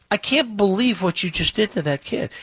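high, incredulous reproach; retold outrage. Narrator confronting the boss over the kid, incredulous and high. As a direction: let the disbelief lift the voice.

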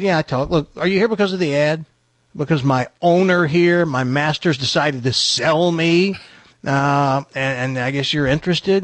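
lightly voiced matter-of-fact talking dog; brisk dog getting down to business. Dog asks buyer about the ad, lightly voiced talking dog. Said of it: "He goes".

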